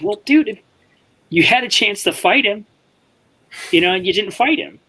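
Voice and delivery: high-pitched, mock-reasonable pointing out; imitated pointed reply; retold needling reply. Retold needling of an angry friend.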